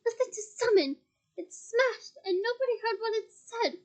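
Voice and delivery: defiant shouting. Acted. Harry shouting defiance at Bellatrix. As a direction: keep yelling in her face.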